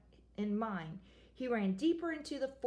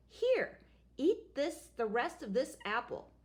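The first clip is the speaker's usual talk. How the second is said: witch voice; 4 semitones higher than usual. Acted. Second witch speaks.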